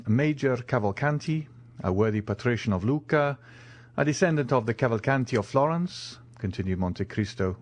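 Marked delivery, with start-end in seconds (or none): 0.1-6.2 measured reading from a letter; reading aloud. A narrator's reading. Count reads the major's introduction letter, reading aloud. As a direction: read it out item by item. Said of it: "reading aloud".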